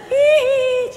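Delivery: high imitated little giggle; baby giggle. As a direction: mimic the toddler's giggle. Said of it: "she laughed".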